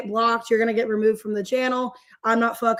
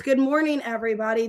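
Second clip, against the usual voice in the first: normal talking voice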